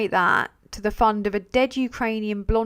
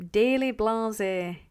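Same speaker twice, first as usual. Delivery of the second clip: slow, lightly put-on mate's voice; Darren's voice; much slower than usual. Greeting a viewer in a friend's lightly mimicked voice. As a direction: stretch it out in a friend's voice. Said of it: "Why do I keep doing Darren's voice?".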